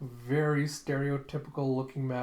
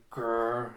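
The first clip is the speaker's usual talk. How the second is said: dog growl. Acted. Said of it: "one of the dogs like".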